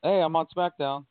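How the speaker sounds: mock a wrestler who suddenly switches shows; mock surprised wrestler. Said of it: "all of a sudden you go".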